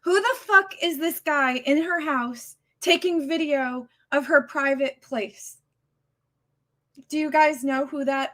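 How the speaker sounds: angry. Real, not acted. Streamer grilling her chat about the intruder, heated anger. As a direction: press them for a name, furious. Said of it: "I'm so upset at this moment".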